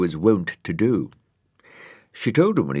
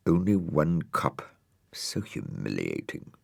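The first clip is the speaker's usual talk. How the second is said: unvoiced, embarrassed whisper; whisper to himself; 5 dB quieter than usual. Dougal alone at the mirror, whispering in shame. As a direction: breathe it out in shame.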